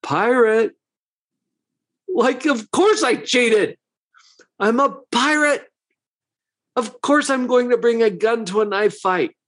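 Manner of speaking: lightly imitated wobbly pirate; a hint of a wobbly, unapologetic rogue; Captain Jack. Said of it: "in his wobbly sort of way".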